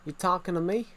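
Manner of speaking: attempted New York tough-guy line; New York accent. Shown as a demonstration. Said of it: "Do a New York accent".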